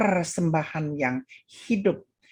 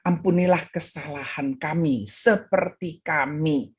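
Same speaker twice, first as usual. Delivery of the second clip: faltering prayer; 2 semitones lower than usual. Retold or imitated. Pastor praying at the altar cannot continue, faltering. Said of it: "Dia tidak mampu meneruskannya".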